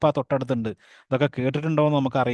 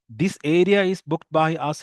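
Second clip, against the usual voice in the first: slow and louder, like a principal at assembly; loud announcing voice; 4 semitones higher, 4 dB louder, much slower than usual. Acted. Vendor lady claiming the banyan tree spot, loud assembly voice. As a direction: boom it out without a mic. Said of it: "അങ്ങനെ ഉറക്കെ സംസാരിച്ചു".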